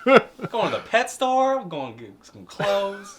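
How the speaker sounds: high, slow, hammed-up singsong; playful excitement. Player joining the shopping joke, playfully excited. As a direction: draw it out high with shopper's glee.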